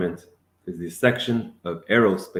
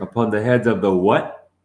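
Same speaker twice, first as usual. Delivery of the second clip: louder rising question; challenging question; 6 dB louder than usual. Real, not acted. Teacher demanding the student name the creature. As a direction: demand the word.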